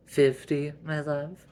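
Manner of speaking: incredulous questioning. Acted. Wife challenging her husband's spending, incredulous. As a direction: press for a confession.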